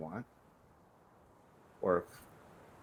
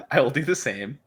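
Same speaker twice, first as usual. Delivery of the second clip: laughing; 7 semitones higher, 10 dB louder than usual. Real, not acted. Laughing while replying.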